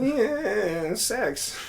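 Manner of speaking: high, drawn-out silly leer; mock-suggestive. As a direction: stretch it out high, teasing about sex. Joking about the couple left alone.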